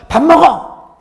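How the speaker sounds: 밥 먹어 barked high and loud; stern scolding. Shown as a demonstration. Pastor demonstrates a harsh, threatening 밥 먹어. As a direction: snap 밥 먹어 like a threatening parent. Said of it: "회초리라도 한 대 때릴 것 같은".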